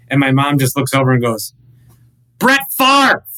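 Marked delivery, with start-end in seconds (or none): 2.4-3.2 high, loud mock mom call; shouted Brett Favre. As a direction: blurt his name across the table like mom. Mom calling out at dinner.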